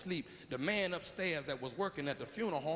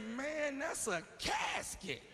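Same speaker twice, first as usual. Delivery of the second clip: shocked yell; 7 semitones higher, much slower than usual. Acted. Traveler discovers he's in a casket.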